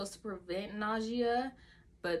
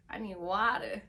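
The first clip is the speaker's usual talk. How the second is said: a dry-throated whisper; whispered plea. Retold or imitated. Waking patient begging the nurse for water, whispered. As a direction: rasp out the need for water. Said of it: "I was like".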